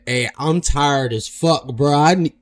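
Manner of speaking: loud mock of the worn-out big guy; tired mock voice. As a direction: ham up a worn-out loser quitting. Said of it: "Nah, that nigga said".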